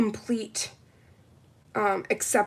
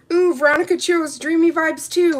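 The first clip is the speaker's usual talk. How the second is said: excited; 7 semitones higher, 5 dB louder than usual. Real, not acted. Excited reveal of polish pick.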